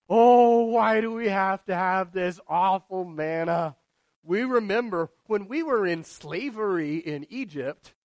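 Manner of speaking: loud whiny complaint about the manna; hammed-up griping; mock whining complaint. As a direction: whine like a spoiled child. Mocking grumbling Israelites.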